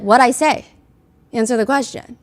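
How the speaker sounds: put-on light Southern accent, authoritative and firm; a lawyer's Southern accent, commanding but not hostile. Lawyer pressing a rapper, in a mild Southern accent. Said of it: "kind of in, like, a Southern accent".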